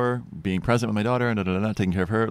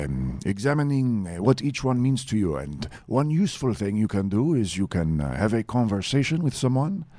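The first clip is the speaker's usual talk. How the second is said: put-on French accent. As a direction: do a lightly French-accented speaker. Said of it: "can you be French now?".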